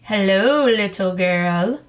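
lightly voiced deep growly wolf; a hint of a wolf growling a sly greeting; slow, mildly growled wolf greeting. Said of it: "said a deep, growly voice".

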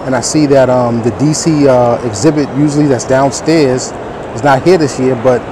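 muffled through a face mask; talking behind a mask. Real, not acted. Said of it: "Don't mind the mask".

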